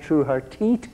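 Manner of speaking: put-on light Irish accent, TEAT for teeth; a touch of Irish brogue. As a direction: say it as the Irish would, th turned to t. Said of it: "As they say in Ireland".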